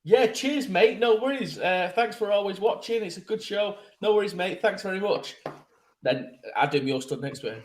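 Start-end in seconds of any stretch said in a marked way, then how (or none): 0.0-5.4 higher, cheery stock replies; breezy thanks to a fan; host showing how he answers a fan; demo fan reply. Shown as a demonstration. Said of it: "This is what I do".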